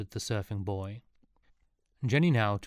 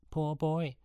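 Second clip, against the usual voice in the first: higher, sing-song mocking of poor boy; mocking echo; 7 semitones higher than usual. A narrator's reading. A hint of taunting. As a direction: boys taunting Sean, mimicking Jenny's pity. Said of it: "mocked the boys again".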